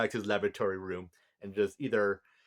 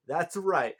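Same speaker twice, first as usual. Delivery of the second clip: a touch of loud excited chanting; mock hyped kid; hyped Anubis; 4 semitones higher, 4 dB louder than usual. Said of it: "Anubis like".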